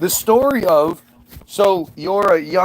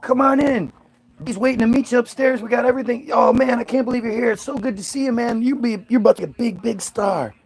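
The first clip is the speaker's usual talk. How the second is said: much higher, eager, fast-ish; gushing welcome; 5 semitones higher than usual. Retold or imitated. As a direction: fawn over the new star. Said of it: "everybody there's like".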